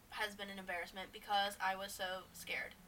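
hushed, unvoiced whisper. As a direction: whisper it like a secret. Whispered confession of fear.

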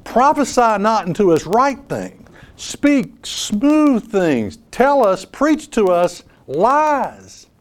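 slow, drawn-out voice of a pampered crowd; mock congregation demand. Preacher voicing the congregation's lazy demand, drawn out. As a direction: stretch out "smooth things" like a spoiled audience. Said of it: "They're saying".

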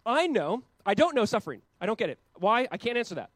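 loud, high, impassioned voice of Job; voicing Job loudly. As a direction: cry it out as Job in his suffering. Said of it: "Job goes".

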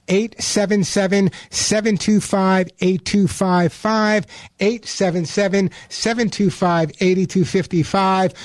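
radio host spells out the phone number slowly; each digit set apart, unhurried and clear; slow announcer number read. Acted. Host giving listeners the call-in number, slow and deliberate.

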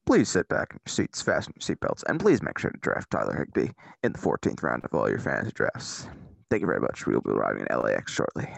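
lightly done captain's PA voice; airline pilot announcement. Pretend. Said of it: "I sounded like an airline pilot".

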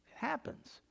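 whispered aside. Real, not acted. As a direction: drop it to a knowing whisper. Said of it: "whispered aside".

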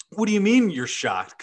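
high, loud, angry squawk. A narrator's reading. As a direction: squawk it out in irritation. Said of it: "Kazooie squawked angrily".

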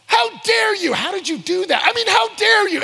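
hammed-up offended yell; mock outrage. The preacher hit by the girl's rhymes, shouting high.

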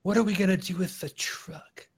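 whispering. Acted. Whispering in character.

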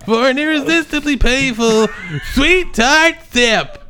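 Jerry Seinfeld impression. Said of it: "worst Jerry Seinfeld impression".

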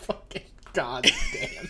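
squeaky laugh through the words; cracking up mid-curse. Real, not acted. Cracking up at a reveal.

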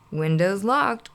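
slow gruff growl; mock grouchy growl. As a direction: growl it flatly. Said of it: "growled Oscar".

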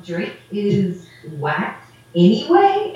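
slow, disbelieving question rising on "anyway"; puzzled echo. Retold or imitated. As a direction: repeat it back as if he can't compute it. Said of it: "he was like".

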